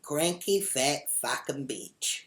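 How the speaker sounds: slow, drawn-out taunt; parting insult. Retold or imitated. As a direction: stretch out each word of the jibe. Parting insult in retold row.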